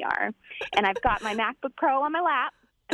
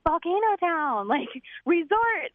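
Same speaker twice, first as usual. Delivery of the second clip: slow and higher, each word spelled out; slow overexplaining; 6 semitones higher, slower than usual. Retold or imitated. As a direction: talk slowly so a foreigner understands. Explaining to a stranger, with gestures.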